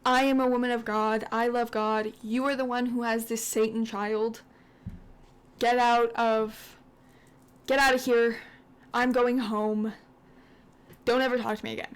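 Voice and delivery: mildly indignant mock outburst; livid, retold. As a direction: voice someone's outrage with a touch of force. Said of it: "Siv is livid".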